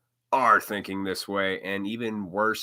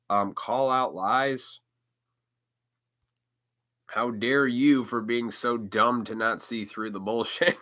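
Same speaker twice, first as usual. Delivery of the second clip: ordinary talk, nothing marked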